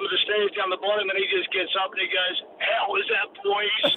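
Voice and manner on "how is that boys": high-pitched mock exclamation; imitated triumphant friend. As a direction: pipe up high, imitating your mate. Acting out friend getting up from crash.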